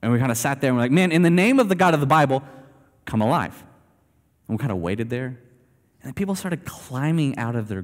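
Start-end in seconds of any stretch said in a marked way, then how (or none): 0.9-3.7 raised, fast commanding call; mock command. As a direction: call the dead out like a bold prophet. Acting out commanding the dead.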